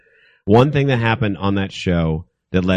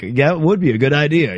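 creepy smiling producer; 6 semitones higher, 3 dB louder than usual. Retold or imitated. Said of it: "smile like".

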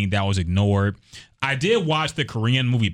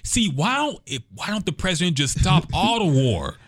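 stoner; 9 semitones higher than usual. Retold or imitated. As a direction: shout it like a stoner. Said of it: "mocking a rapper's plans".

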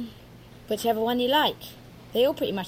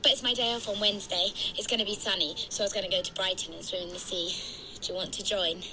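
phone voice; 4 dB quieter, faster than usual. Acted. Jean on the phone.

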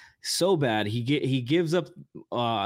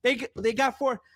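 put-on higher, old-fashioned mid-Atlantic announcer; old-timey radio host; 7 semitones higher than usual. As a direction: talk like a 1940s radio host. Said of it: "Why am I talking like an old-timey radio host?".

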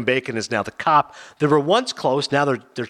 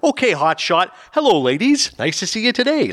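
De Niro impression; 6 semitones higher than usual. Host showing his De Niro voice, chirpy and high. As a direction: do De Niro like a cheery Ned Flanders. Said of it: "I had to work on the De Niro accent".

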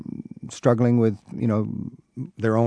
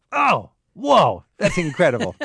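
high, loud gasp of wonder; mock awe; 7 semitones higher, 3 dB louder, slower than usual. Host imagining himself on the river, mock awestruck. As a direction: pretend to be stunned by the river. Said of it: "and go".

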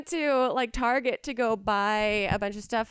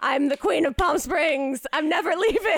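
grand queen voice; 5 semitones higher, 5 dB louder than usual. Retold or imitated. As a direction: proclaim it like royalty. Retold grand reply at checkout.

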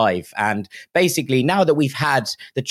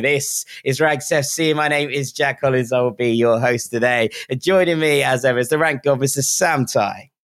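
breathless after a long recital; out of breath. Real, not acted. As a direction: speak while catching your breath. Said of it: "You look out of breath".

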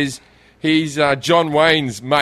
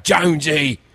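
put-on East End London film accent; Ray Winston; slower than usual. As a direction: lightly mimic a London East End actor. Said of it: "Ray Winston had it".

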